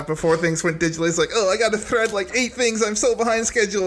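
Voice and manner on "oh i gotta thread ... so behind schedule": higher flustered rush; panicky. Retold or imitated. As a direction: play the harried projectionist. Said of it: "a panicky Pete".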